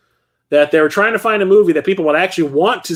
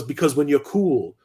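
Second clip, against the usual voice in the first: laid-back cool guy, a touch softer; 5 dB quieter than usual. Retold or imitated. Mugshot cool guy answering the macho cop, smug and relaxed. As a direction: play it smug and unbothered. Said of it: "And he goes".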